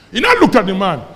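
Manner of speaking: amused laugh breaking into the story. Real, not acted. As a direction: chuckle your way into the sentence. Laughs while telling the story.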